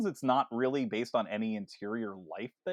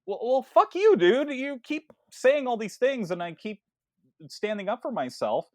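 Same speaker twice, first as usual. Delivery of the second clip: higher-pitched, flustered telling-off; mock indignant; 8 semitones higher, 4 dB louder than usual. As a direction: tell him off as the fed-up heroine. Retold character telling boyfriend off.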